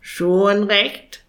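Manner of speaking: curt raven rasp. Acted. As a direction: brush him off. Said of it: "schnarrte Jakob Krakel".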